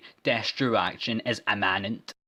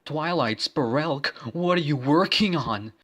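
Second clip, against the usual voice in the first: Tom's line; 5 semitones higher, 4 dB louder than usual. Acted. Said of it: "said to her".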